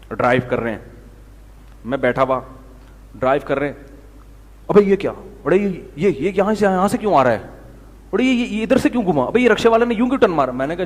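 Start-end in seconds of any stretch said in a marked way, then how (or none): 4.7-10.5 rising, fast, alarmed exclamations; mock-alarmed newcomer yelping at rickshaws; panicked student driver. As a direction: blurt out each shock as it comes at you. New driver panicking at traffic.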